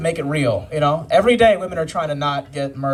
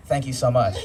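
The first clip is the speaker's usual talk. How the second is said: proper polite voice. Retold or imitated. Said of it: "talking like this ever since".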